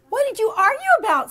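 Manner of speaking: high, quick curious question; eager little girl voice; girl asking. Acted. Jessica asking Jeremy about his fight, high and quick. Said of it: "said Jessica".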